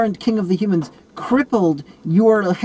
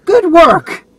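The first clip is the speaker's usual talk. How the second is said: mock cheer; 11 semitones higher, 11 dB louder than usual. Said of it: "It's just like".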